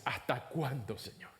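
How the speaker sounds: soft, pleading lament to God; prayer of lament. Acted. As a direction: plead gently, like a weary prophet praying. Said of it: "lamentos y quejas".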